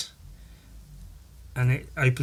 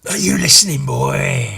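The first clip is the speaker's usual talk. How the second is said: lightly voiced old man; 5 dB louder than usual. Voicing comic's old man.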